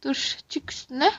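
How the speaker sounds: hushed whisper. Acted. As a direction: whisper it so she won't hear. Secretly steering the prank. (fısıltıyla)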